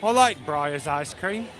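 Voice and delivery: slow mock-British statement; bad British accent. Brother announcing his ice cream choice, bad British accent. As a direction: draw it out in a fake British accent. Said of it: "bad British accent".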